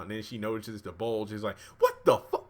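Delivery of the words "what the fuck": loud, high-pitched mock outrage; shrieky imitation of shock, half laughing; retold shock. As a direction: blurt it out in comic disbelief. Retold shock at what she notices.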